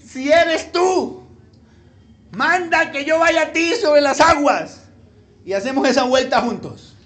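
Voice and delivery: slow, loud Colombian street-slang shout; Pedro as ñero. Acted. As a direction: holler it high like a streetwise disciple. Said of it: "No sabía que Pedro era ñero".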